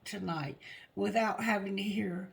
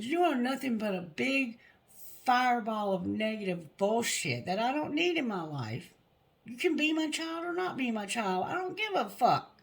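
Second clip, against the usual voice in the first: retold anger building; 2 semitones higher than usual. Retold fight, building to insult.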